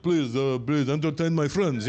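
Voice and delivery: mock Saudi royal with a thick Arab accent; stereotyped Arab accent. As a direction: put on a caricatured Arab accent. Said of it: "He's not like".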